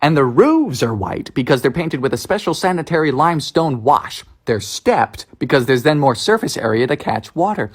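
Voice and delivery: low-pitched presenter narration; explainer narration. Acted. Presents facts about Bermuda.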